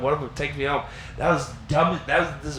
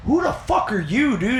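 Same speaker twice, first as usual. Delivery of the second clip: confused worker; 7 semitones higher than usual. Retold or imitated. Cook confronting him.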